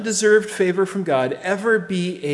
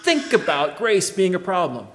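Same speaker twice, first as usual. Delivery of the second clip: high, loud voicing of Paul; preacher voicing Paul crying out, high and loud; emphatic exclamation; 6 semitones higher, 3 dB louder than usual. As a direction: cry out the denial. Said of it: "So Paul says".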